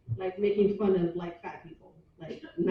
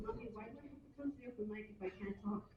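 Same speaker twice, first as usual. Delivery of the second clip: put-on child voice; 18 dB quieter, faster than usual. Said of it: "she goes".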